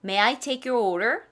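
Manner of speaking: slow, courteous, order rising; waiter asking. Acted. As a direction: play a waiter at the table. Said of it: "그들이 말을 할 때요". (손님에게 주문받는 웨이터처럼)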